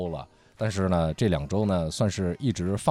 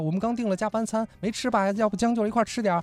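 friendly colleague; 12 semitones higher, faster than usual. Retold or imitated. Colleague voiced inviting to dinner.

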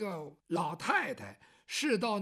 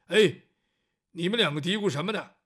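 much louder gruff call; booming interruption; 4 semitones lower, 8 dB louder than usual. Acted. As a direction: barge in on the whispering pair. 赵虎大嗓门插进来. (赵虎粗声大嗓地插话)

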